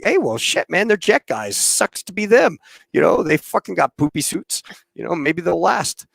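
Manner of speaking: offhand dismissal. Retold or imitated. Crewmate writing off the jet guys, dismissive.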